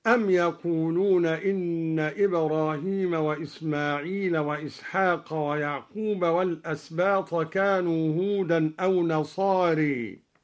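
يقولون read with ya, yaquluna. Shown as a demonstration. Teacher showing al-Duri's reading يقولون with ya. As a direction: start يقولون with a clear ya sound. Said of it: "قرأ الدوري بالياء هكذا".

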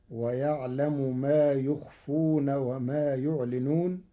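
slow يخفون and يعلنون with ya; Warsh reading. Shown as a demonstration. الشيخ يقرأ بياء الغيب. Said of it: "بياء الغيب في الفعلين".

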